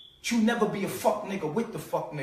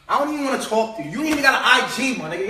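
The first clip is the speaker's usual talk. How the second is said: fast, louder, laughing scorn; mocking laugh; 3 semitones higher, 6 dB louder, faster than usual. Laughing at someone with no IG, fast and scornful. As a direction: laugh them off as hopelessly behind.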